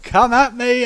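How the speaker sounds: high, loud mock Brooklyn challenge; Brooklyn accent. Brooklyn Vulcan dares the others, loud high Brooklyn accent. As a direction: dare them in a put-on Brooklyn voice. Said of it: "we have this Brooklyn Vulcan that's just like".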